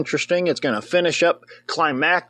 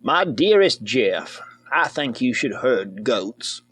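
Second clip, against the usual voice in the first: mock letter voice; 4 semitones lower, slower than usual.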